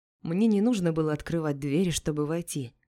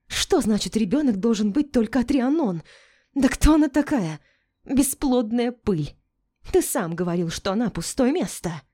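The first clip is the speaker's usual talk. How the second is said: high, loud indignant shriek; 6 semitones higher, 4 dB louder than usual. A narrator's reading. Melinda shrieking about her rival, high and loud. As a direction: squeal it with contempt. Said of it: "взвизгнула Мелинда".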